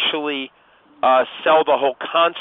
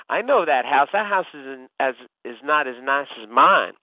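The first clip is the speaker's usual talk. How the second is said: put-on a light Atlanta homeowner accent, a bit louder; 3 dB louder than usual. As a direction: play the proud Atlanta homeowner in a mild Atlanta accent. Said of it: "an Atlanta accent".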